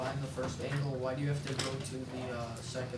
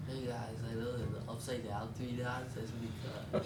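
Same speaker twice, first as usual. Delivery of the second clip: nerdy know-it-all voice; eager nerd showing off. Pretend. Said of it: "Is that your nerd voice?".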